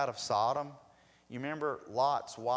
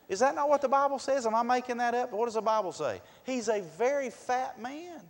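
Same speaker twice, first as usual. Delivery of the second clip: much higher, louder, faster challenge; preaching at full force; 11 semitones higher, 7 dB louder than usual. Real, not acted. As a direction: drive it home to the congregation.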